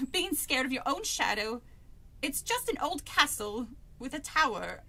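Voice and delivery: lightly faked British accent; a touch of mock London accent; British character voice. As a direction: read the dialogue in amateur British. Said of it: "do the voices at, in British".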